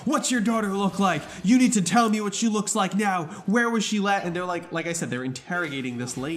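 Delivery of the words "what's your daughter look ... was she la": higher, pushy interrogation; acted insistent grilling; not gently. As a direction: demand answers, imitating harsh questioners. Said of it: "But not gently. They were like".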